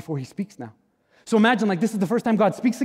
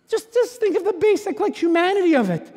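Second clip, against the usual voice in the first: higher, urgent preaching lift; impassioned plea; 12 semitones higher than usual. Real, not acted. Pastor urging congregation, higher and impassioned. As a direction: push it up, pleading with them.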